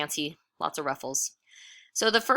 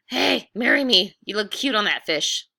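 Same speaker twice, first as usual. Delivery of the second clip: a playful holler, louder and higher; hollered proposal; 4 semitones higher, 4 dB louder than usual. Acted. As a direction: call out to her like a lovesick cowboy.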